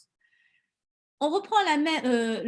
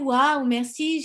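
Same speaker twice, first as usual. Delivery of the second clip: slow, drawn-out delighted waouh; delighted wow; 5 dB louder, much slower than usual. Shown as a demonstration. Coach showing joy at paperwork, delighted. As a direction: breathe in and gush thanks slowly.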